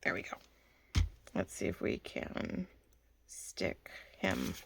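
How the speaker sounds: quiet whisper to herself; hushed, slow murmur. Real, not acted. Whispering while working.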